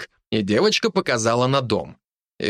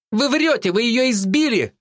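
put-on accusing girl; 11 semitones higher than usual. A narrator's reading. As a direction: call the man a liar. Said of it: "заявила Ульяна".

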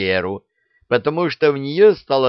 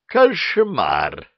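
gasp of horror; 5 semitones higher than usual. Acted. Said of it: "ахнул Кощей".

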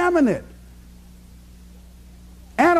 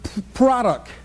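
imitating stutter; slower than usual. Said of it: "she stutters".

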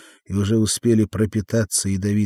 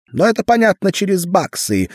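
high, louder thin tenor; 11 semitones higher, 6 dB louder than usual. A narrator's reading. Sam explaining his plan to Arnold, in a thin tenor. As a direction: push the line up into a thin little tenor. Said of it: "тонким тенорком говорил Арнольду Сэм".

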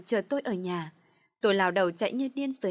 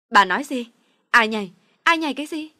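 loud, rising disbelieving demand; shocked shout; 4 semitones higher, 11 dB louder than usual. A narrator's reading. Girl hearing her mother jumped, shocked shouting. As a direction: yell the question in horror.

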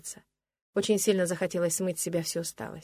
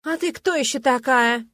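громко, высоко и медленно, с наездом; требуй ответа, как хозяйка положения; возмущённый окрик; 6 semitones higher, 8 dB louder, slower than usual. Acted. Блондинка застаёт героиню в кабинете. (громкий возмущённый вопрос)

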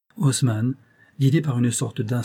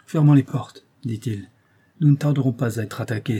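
command. Acted. Father ordering defence.

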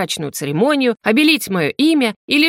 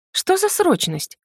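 higher, slow, unconvinced question; disbelieving; 10 semitones higher, slower than usual. A narrator's reading. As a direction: doubt every word of it, drawn out. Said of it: "не поверила я". (недоверчиво, медленно и выше)

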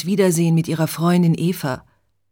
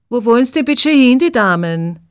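louder and higher, impatient cabbie; impatient Viennese taxi driver; 5 semitones higher, 6 dB louder than usual. Acted. Taxi driver hurrying his two passengers, impatient and loud. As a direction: hurry the ladies along. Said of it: "Der Taxifahrer wird ungeduldig".

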